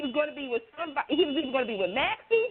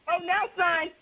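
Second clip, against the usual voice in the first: excited mock scolding; 6 semitones higher than usual. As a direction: hype up an ordinary weekday, voice high. Acting out her excited reaction.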